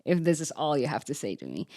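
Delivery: exasperated retort broken by a laugh; fed-up protest, half laughing at oneself; frustrated. Retold or imitated. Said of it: "I got so frustrated".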